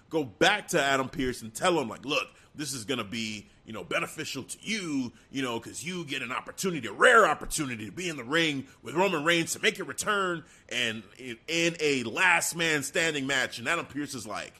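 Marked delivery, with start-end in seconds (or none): 2.0-13.6 soft persuading. Acted. Heyman's soft persuasion voiced.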